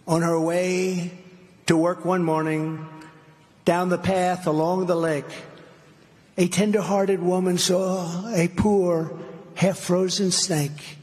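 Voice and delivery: measured, deliberate poem recital; slow storytelling read with pauses. Acted. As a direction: read it like a dramatic fable. Reads the Snake poem aloud.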